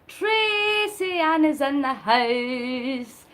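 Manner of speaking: slow, loud hype call-out; drawn-out announcement, starting loud; announcing an arrival. Real, not acted. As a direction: stretch it out like welcoming a guest. Announcing a viewer joining the stream.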